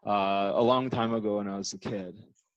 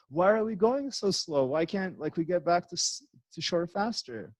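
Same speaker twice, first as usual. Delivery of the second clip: higher-pitched mock panicky complaint; imitating freaked-out girlfriend; 6 semitones higher than usual. Quoting girlfriend wanting back to shore, mock panic. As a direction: mimic a panicky passenger pleading to hurry, without real force. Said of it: "My girlfriend's freaking out".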